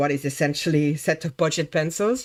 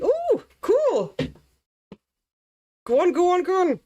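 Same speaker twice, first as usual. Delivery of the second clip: high squealing cheer, much higher; excited cheering; 12 semitones higher than usual. Pretend. Eager cheering of herself on.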